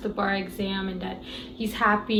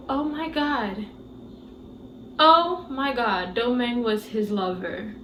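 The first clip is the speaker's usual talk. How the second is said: realization. Retold or imitated. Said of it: "it hit me".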